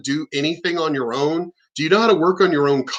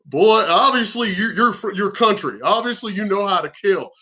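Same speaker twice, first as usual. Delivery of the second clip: higher-pitched impressed astonishment; retold shock, voice lifted; 4 semitones higher than usual. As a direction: imitate an amazed slaughterhouse worker. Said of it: "He was even shocked. He was like".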